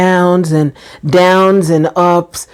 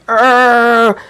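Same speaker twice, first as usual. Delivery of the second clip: short growl of frustration, raised pitch; mock growl; 4 semitones higher than usual. Woman showing how she didn't react to stress, mock growl. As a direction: growl as if about to blow up. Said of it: "I wasn't like".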